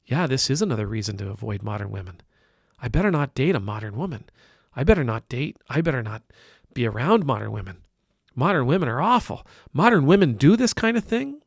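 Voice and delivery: sarcastic imitation of someone who swallows the generalization whole; mocking a gullible viewer. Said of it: "you say".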